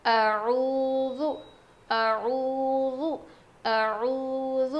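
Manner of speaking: اعوذ, touch the ذ lightly; light dhal in a'udhu. Shown as a demonstration. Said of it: "ذال بالکل ہلکا پڑھیں گے".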